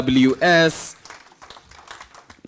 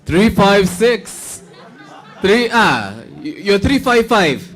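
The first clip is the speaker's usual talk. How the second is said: laughing; 5 semitones higher than usual. Real, not acted. Repeating ticket number, amused.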